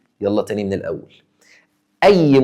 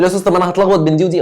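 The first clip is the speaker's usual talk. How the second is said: quick, fretful student complaint; confused student; 4 semitones higher, faster than usual. Retold or imitated. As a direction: rush it like a worried pupil. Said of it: "تقول لي". (طالب قلقان بيتكلم بسرعة)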